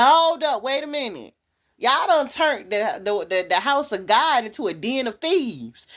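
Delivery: a preacher voicing Jesus as he clears the temple, shouting; mock outraged shout. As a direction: throw the tables with your voice, hold up.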